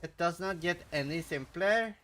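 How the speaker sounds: put-on sing-song Norwegian accent with high notes. Streamer mock-offended at chat's critique, lilting Norwegian accent. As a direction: exaggerate the Norwegian lilt. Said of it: "You're lacking the high notes for Norwegian?".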